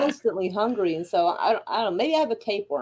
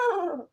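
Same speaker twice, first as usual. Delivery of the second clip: failed horse noise; 7 semitones higher, 7 dB quieter than usual. Retold or imitated. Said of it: "I can't do the horse noise".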